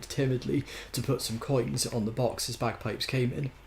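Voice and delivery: measured novel reading; story narration. A narrator's reading. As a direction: narrate it with light emphasis. Reads a novel aloud.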